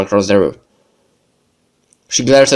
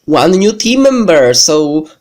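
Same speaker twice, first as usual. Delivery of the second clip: upbeat outro; 6 semitones higher than usual. Real, not acted. Host wraps up the episode.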